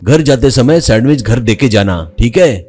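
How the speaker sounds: hint of a friendly uncle; lightly voiced elder on the phone. President phoning Jitu for sandwiches, lightly voiced.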